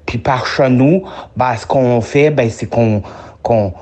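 laid-on Québécois accent. Shown as a demonstration. Friend answers the challenge by introducing himself, Québécois accent. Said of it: "te faire mon accent québécois".

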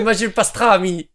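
mock Marseille accent. Contestant sticking to pastrami in Marseille, mock Marseille accent. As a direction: put on a hammy Marseille accent. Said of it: "Bouches-du-Rhône, on parle comme ça".

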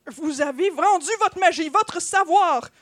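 loud, outraged reproach, slowing at the end; indignant accusation. Acted. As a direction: accuse an old friend, stretching the last words. Wizard accuses his old friend. (accusation indignée, voix forte)

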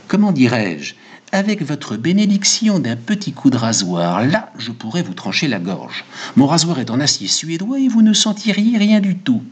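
lightly voiced barber, pitch lifting as he sells it; a hint of an obliging, uneasy barber; eager, troubled barber. Barber offers Goludja a razor cut, lightly voiced eager pitch.

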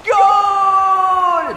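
long, high, loud goal shout; shouted goal call. Acted. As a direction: belt out the goal like a commentator. Commentator calls goal.

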